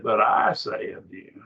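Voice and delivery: preacher's emphasis on the word I. Shown as a demonstration. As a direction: stress I in "but I say". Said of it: "we would raise our voice".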